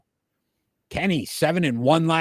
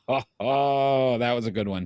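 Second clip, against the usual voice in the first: real laugh into a lower trailing comment; amused laughing; 3 semitones lower than usual. Real, not acted. Host reacting to co-host's hot dog joke, laughing. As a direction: chuckle through the reaction to a pun.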